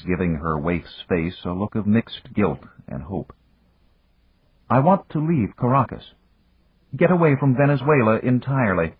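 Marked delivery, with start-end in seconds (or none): 4.7-8.9 lightly voiced young lady, pitched up; higher, determined young woman; a hint of an earnest heroine. A narrator's reading. Narrator voices Lucita pleading.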